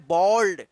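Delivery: बॉल्ड with a rounded aw, not बाल्ड or बल्ड; clear, firm बॉल्ड with a falling close; correct bold. Shown as a demonstration. Teacher giving the right answer after the wrong readings, firmly. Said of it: "क्या पढ़ना है?".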